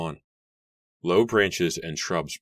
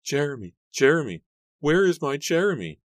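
high, frantic calling; distraught high-pitched wail of words; shrieking; 10 semitones higher, 6 dB louder than usual. A narrator's reading. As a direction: cry out for him, high and loud. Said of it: "Mary shrieked, finally finding her voice".

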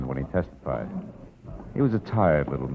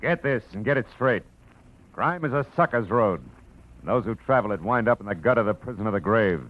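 tough warning; 4 semitones higher than usual. Acted. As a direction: lay down the law like a tough guy. Hard-boiled show opener.

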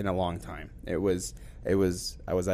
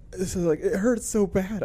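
high-pitched imitation of a woman crying in pain; retold tearful complaint, pitched up; mock crying; 9 semitones higher than usual. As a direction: whine it high, as if crying from hurt. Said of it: "she's, like, crying".

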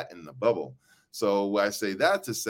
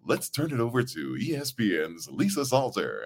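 practiced announcer line. Shown as a demonstration. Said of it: "I practice now".

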